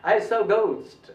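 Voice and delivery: "ghost" as "goust", hard unaspirated g; English ghost. Shown as a demonstration. Teacher models an English example, "ghost" as "goust". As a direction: say "ghost" with plain g, gliding o. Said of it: "ऐसे बोलना चाहिए".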